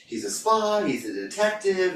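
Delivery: high-pitched mock amazement; astonished onlookers. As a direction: voice the baffled crowd, pitched well up. Acting out amazed onlookers' guesses.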